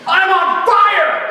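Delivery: high, loud, drawn-out mock scream; frenzied cry. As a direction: imitate someone wildly overcome in prayer. Acts out girl overcome in prayer.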